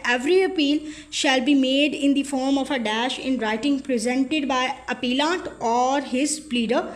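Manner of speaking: each word of the legal statement read out very slowly; slow dictation read. Shown as a demonstration. Tutor reading an exam question to students, slow dictation.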